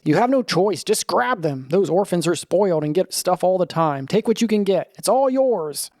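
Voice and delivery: a mild bellow, tempting you to take it; greed dragon urging you to grab the cereal; greedy dragon voice. Acted. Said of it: "bellows the greedy voice".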